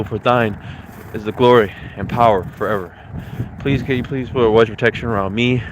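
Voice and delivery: earnest spoken prayer. Real, not acted. Leads a prayer.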